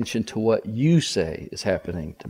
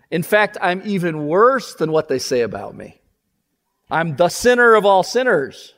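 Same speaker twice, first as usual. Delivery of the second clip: broken confession; 6 semitones higher, 4 dB louder than usual. Acted. Tax collector's broken confession voiced.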